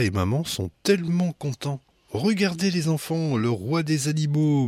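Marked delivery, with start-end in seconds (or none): 2.1-4.7 bellowing dad. A narrator's reading. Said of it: "mugit papa".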